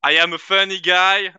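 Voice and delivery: slow flat Kawhi Leonard voice; deadpan Kawhi Leonard quote; Kawhi Leonard impression. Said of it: "Tu l'as bien fait, Kawhi".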